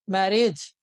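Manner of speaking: "मैरिज" drawn out as mary-ej; split in two. Shown as a demonstration. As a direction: sound out both parts of "मैरिज". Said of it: "दो हिस्सों में तोड़ सकते हैं". ("मैरिज" को दो हिस्सों में खींचकर)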